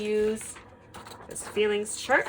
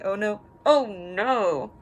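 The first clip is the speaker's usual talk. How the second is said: mock worried; 3 semitones higher, 8 dB louder, slower than usual. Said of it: "worried face or scared face".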